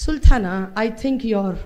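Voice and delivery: slow, lightly voiced female assistant; female device voice. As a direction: speak like a smart speaker's lady voice. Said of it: "பொம்பளை வாய்ஸா மாறி இருக்கு". (மெதுவான பெண் கருவிக் குரல்)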